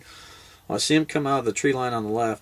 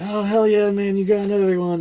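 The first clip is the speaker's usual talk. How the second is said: higher, louder imitation of an excited buddy; acted congratulation; 9 semitones higher, 4 dB louder than usual. Buddy seeing the doe, acted excited congratulation. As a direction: cheer on a friend's success. Buddy's retold cheer at kill.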